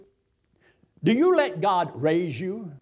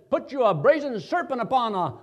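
commanding God voice; 7 semitones higher, 4 dB louder than usual. Retold or imitated. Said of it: "So he told him, says".

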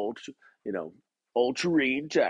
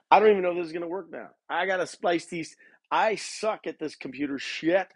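fast, higher-pitched real frustration; exasperated; 4 semitones higher than usual. Real, not acted. Podcaster facing a splice job after the recording cut out, exasperated. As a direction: rattle off the complaint, fed up.

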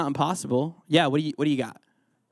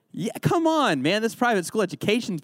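excited cheer; 6 semitones higher than usual. Real, not acted. Cheering on kids who answered.

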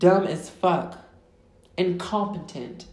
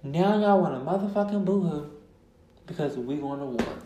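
the scolding line repeated with less force; restrained scolding. Real, not acted. Podcaster repeating her rebuke about war, restrained scolding. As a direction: say it pointedly, then let it sink.

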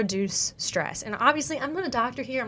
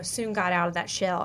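slip of country accent. Real, not acted. Host admits her country accent slipped out on "shell". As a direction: let a bit of Southern country accent slip into "got out of that shell". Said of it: "my country accent coming out".

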